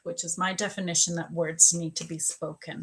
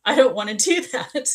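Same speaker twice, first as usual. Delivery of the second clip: higher mock refusal; retold protest; 4 semitones higher, 4 dB louder than usual. Arguing with God in her head, reluctant protest. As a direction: protest half-laughing, pitched up.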